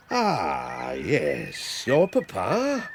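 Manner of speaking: winded, slow and low; catching breath after the walk. Acted. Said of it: "Oh, I'm quite out of breath".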